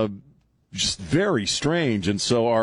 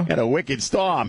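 slow, higher-pitched Maine echo; playful mock Maine accent; Down East Maine accent; 4 semitones higher than usual. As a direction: mimic a Mainer, dropping the R. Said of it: "That accent is so cool".

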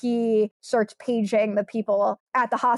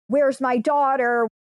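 retold scream; 3 semitones higher, 4 dB louder, slower than usual. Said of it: "I hear that someone's screaming".

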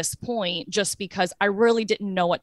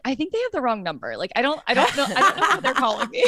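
laughing disbelief; 5 semitones higher, faster than usual. Retold or imitated.

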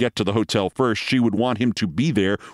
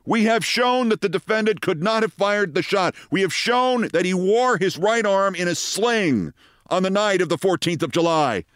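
courtroom attorney; 10 semitones higher than usual. Acted. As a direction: argue it high to the whole jury. Defense attorney argues in court.

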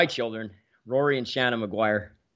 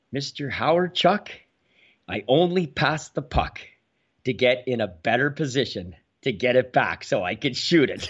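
slow formal drawl. Retold or imitated. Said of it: "he talks a very slow drawl".

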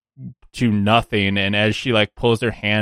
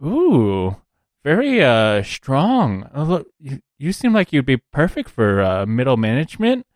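mildly impressed, swooping ooh; a touch of admiring appraisal; lightly voiced recruiter; 5 semitones higher than usual. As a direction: lightly play a recruiter sizing someone up. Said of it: "look them up and down and go".

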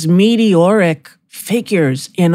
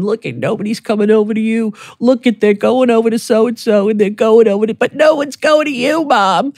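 son teasing; 4 semitones higher than usual. Retold or imitated. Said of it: "my son started teasing me, going".

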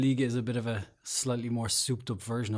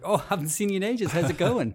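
higher-pitched imitation of a chummy hello; mock friendly greeting; 7 semitones higher, 3 dB louder than usual. Host imitating players bumping into each other in the street, mock chummy greeting. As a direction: play old pals meeting by chance.

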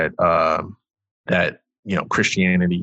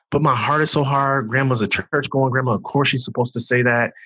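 retold protest; 6 semitones higher than usual. Retelling his inner protest to grandma.

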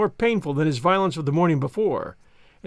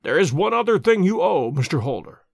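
stern. Acted. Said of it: "said Sherlock Holmes rather sternly".

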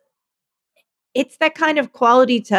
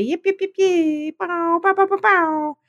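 high, breathy little dog yips; yappy panting puppy; 10 semitones higher than usual. Pretend. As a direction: yip like a tiny excited puppy. Silly puppy noises.

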